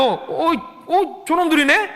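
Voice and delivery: loud surprised recognition; gleeful aha; caught you. Retold or imitated. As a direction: spot the rascals on camera. Spotting kids on CCTV.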